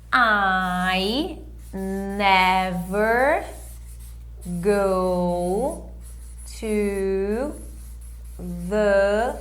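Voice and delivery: "I never go to the beach" word by word, very slow; slow model sentence. Shown as a demonstration. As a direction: dictate each word with long pauses. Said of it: "Pausa e volta aqui". (frase modelo bem lenta, palavra por palavra)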